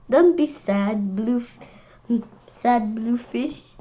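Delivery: slow, tender coo to the fish; comforting. Real, not acted. Child talking to the sad fish in the book, slow and tender. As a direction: soothe it like a sad pet.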